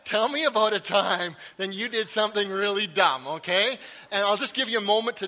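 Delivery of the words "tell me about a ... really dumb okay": "Dad" called out much louder; calling out. Shown as a demonstration. Pastor modeling how to ask your dad, calling out. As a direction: call across to your dad. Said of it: "you need to go".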